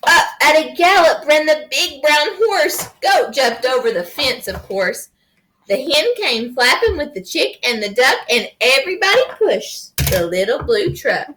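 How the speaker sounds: lively picture-book narration; reading to children. A narrator's reading. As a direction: read it to a small child with playful swings.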